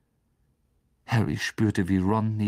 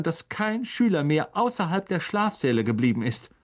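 brisk orders; 8 semitones higher than usual. A narrator's reading. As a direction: give orders crisply. McGonagall gives orders.

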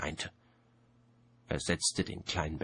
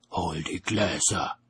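slow, louder order to a servant; slow, weighty command; 5 dB louder, slower than usual. A narrator's reading. Death orders Albert to fetch the glasses, slow and loud.

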